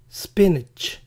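"spinach" as SPIN-itch; correct English pronunciation. Shown as a demonstration. Teacher gives the true choice, "spinach" as SPIN-itch. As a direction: say "spinach" with short vowels and final ch. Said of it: "¿Cómo se pronuncia espinaca en inglés?".

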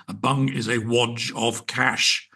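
slow, lightly voiced lawyer; a hint of a pompous lawyer explaining, slowly; lawyer accent. Quoting the lawyer guest's bung explanation in a mild lawyer voice. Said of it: "he said in his best lawyer accent".

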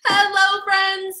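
high-pitched, bubbly "we're live" opener; hyper excited greeting. Real, not acted. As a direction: burst in full of energy to greet friends. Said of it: "I'm feeling extra hyper and excited today".

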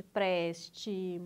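"prestimosa" broken into four evenly spaced syllables. Shown as a demonstration. Teacher showing the correct division, syllable by syllable. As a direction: sound out "prestimosa" one syllable at a time. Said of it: "separe as sílabas".

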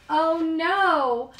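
alarmed gasp. Acted. Character dreads a sneeze.

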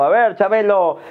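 game-show announcer pitching prizes; Aguilera. Acted. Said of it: "el señor Aguilera dijo".

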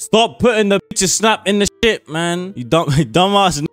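loud, high, fed-up shout at the chat; exasperated yell. Real, not acted. Streamer yelling at viewers who send snap pics, exasperated shout. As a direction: yell it at the screen, fully fed up.

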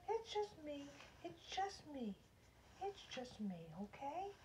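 gentle, hushed comforting; soothing reassurance. Real, not acted. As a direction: softly coax a nervous pet. Soothing a frightened pet.

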